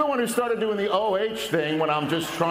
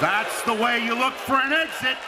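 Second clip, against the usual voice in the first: punchline shout; 3 semitones higher than usual. Acted. Punchline to the crowd.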